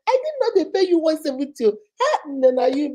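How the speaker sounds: high-pitched mock astonishment; feigned amazement. Shown as a demonstration. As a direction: act amazed at his pay, voice leaping up. Acts wife feigning surprise at pay.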